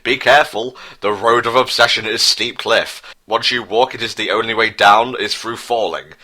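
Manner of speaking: a lightly voiced old king, grave advice; solemn fatherly warning in a put-on voice; wise father. Prince Charles warns obsessed son, grave put-on voice. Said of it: "said Prince Charles with truth".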